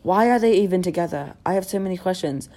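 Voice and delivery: reading aloud in mock British; British accent. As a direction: put on a British accent to read a post. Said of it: "read everything on Instagram in a British accent".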